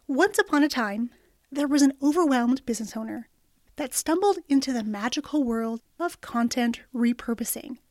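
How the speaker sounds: storybook narration, ending in a whisper; fairy tale opening. A narrator's reading. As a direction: tell it like a bedtime story.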